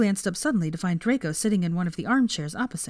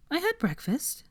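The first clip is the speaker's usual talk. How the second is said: defensive; 9 semitones higher, 3 dB quieter than usual. A narrator's reading. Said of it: "she said defensively".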